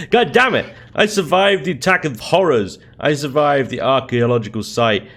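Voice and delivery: high, loud ranting list; exasperated rant. Real, not acted. Player ranting to viewers about his death, exasperated. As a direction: build the complaint with each line.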